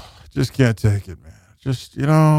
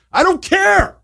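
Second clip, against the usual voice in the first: mock retort; slower than usual. Answers the imitated excuse.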